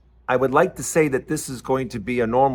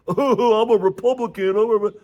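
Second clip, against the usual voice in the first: higher-pitched, put-on dopey chant; mocking voter voice; 5 semitones higher than usual. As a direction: parody a proud party voter. Mocks voters proudly declaring their party.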